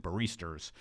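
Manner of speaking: "baristas" with a New York R on the end; New York accent. Shown as a demonstration. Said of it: "That's my New York accent".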